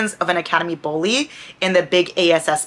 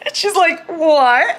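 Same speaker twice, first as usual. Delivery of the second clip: high laughing "What?"; 10 semitones higher, slower than usual. Real, not acted. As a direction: crack up mid-quote.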